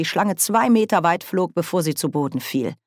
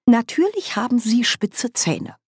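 higher, schoolmasterly explaining; lecturing tone; 7 semitones higher than usual. A narrator's reading. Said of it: "im Tonfall eines Dozenten".

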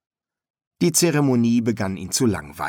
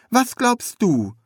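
high, curious apprentice voice; high-pitched inquisitive apprentice; young apprentice, curious; 13 semitones higher, 3 dB louder, slower than usual. A narrator's reading. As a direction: ask it high, full of naive wonder.

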